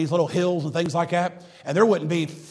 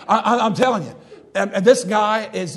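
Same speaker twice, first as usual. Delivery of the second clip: chuckling through the words; laughing; 4 semitones higher, 5 dB louder than usual. Real, not acted. Preacher laughing as he recalls scary Percy Ray. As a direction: laugh while getting the words out.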